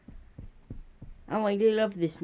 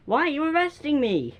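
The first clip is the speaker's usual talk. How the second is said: pretend protesting suspect; 7 semitones higher, 4 dB louder than usual. Suspect protests arrest, role-play.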